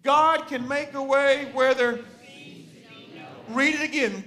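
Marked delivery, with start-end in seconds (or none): 0.0-2.0 loud, slow scripture reading. Shown as a demonstration. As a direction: lead a group reading aloud, slow and loud. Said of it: "read this scripture out loud".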